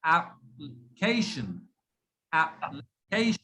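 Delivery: "application" slowly in pieces, the LI shrunk to a bare l; blind middle syllable. Shown as a demonstration. Teacher breaks it down for learners, unstressed LI in "application". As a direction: separate AP, a faint l, then CATION in "application". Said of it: "did not even stress on L I".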